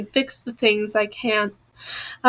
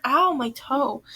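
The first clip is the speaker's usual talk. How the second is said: quiet ow from a sore toe; pained aside; 5 dB quieter than usual. Real, not acted. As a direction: wince at a hurt toe, softly. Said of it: "I cut my toe the other day".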